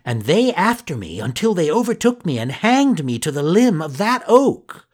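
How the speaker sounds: building to the hanging; excited telling. Acted. Pinocchio tells dramatically.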